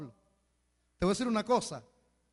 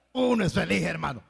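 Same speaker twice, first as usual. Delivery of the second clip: louder, stress on uno; emphatic; 6 dB louder than usual. Shown as a demonstration. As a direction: proclaim it to the congregation. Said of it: "repeated phrase, two takes".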